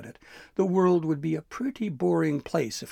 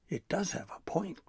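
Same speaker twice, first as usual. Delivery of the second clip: tentative, higher suggestion; venturing; 6 semitones higher than usual. A narrator's reading. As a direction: float the idea cautiously. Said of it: "Gristle ventured".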